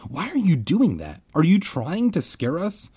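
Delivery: high, pressing questions; pleading. A narrator's reading. Boys question the dancing kids, pleading. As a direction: plead for an explanation. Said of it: "Ben and I both pleaded".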